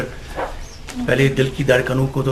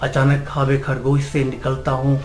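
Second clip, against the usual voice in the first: measured Urdu verse recitation; poem recitation. Acted. Amateur poet to a gathering, reciting his nazm.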